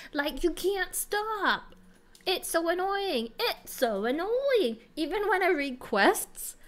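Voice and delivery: put-on English accent. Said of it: "I'm doing it in an English accent".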